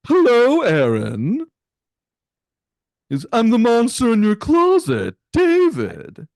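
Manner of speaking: very high, loud squeaky monster voice; a high, loud screeching creature calling out; hammed-up falsetto monster from the closet; shrill closet monster. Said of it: "you hear from the closet".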